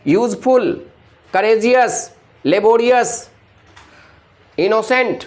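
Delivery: यूजफुल, करेजियस, लेबोरियस, इनोसेंट each in distinct syllable beats; broken into syllables. Shown as a demonstration. Teacher showing students how words break, each of यूजफुल, करेजियस, लेबोरियस, इनोसेंट split into syllables. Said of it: "वो break हो जाता है".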